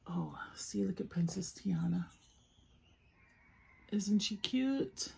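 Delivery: soft whisper, slowing down at the end. Real, not acted. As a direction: coo over the figure in a hush. Whispering over Tiana figure.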